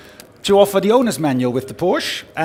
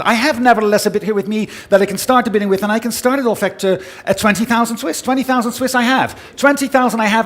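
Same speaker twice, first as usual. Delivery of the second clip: brisk rhythmic auction patter; fine art auctioneer. Acted. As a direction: call the bids steadily, pressing the room. Auctioneer calling bids live.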